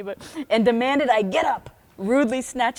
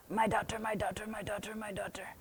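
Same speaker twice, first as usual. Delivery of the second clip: softly whispered, trailing softer; 11 dB quieter than usual. Retold or imitated. Guru whispering into a devotee's ear, soft and tender. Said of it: "whispered in her thick Indian accent".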